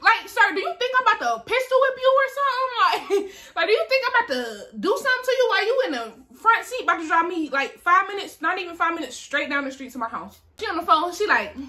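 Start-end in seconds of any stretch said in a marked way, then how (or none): 0.3-10.4 sassy disbelief. Retold or imitated. Sassing the cop, laughing.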